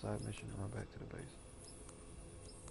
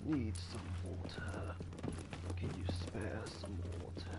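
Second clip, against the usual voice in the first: raspy zombie groan, slow; 4 dB quieter, slower than usual. Pretend. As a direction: moan for water like a zombie. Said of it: "Why do you sound like a zombie?".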